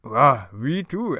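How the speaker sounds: slow, loud talking-dog voice; Scooby. Acted. Cartoon dog answering Shaggy, slow put-on dog voice.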